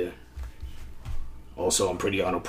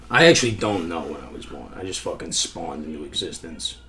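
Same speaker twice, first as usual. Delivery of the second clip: smoker's cough voice. Acted. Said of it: "smoker's cough type talk".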